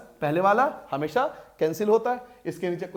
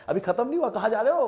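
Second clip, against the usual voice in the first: higher-pitched real protest; higher, urgent call to someone leaving; calling after students; 5 semitones higher than usual. Real, not acted. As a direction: call them back, pitch raised.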